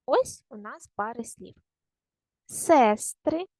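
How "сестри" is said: Сестри with a high, long first syllable; stress on СЕ. Shown as a demonstration. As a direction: lift and hold СЕС in Сестри. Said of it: "Це вам приклад". (Сестри з наголосом на першому складі)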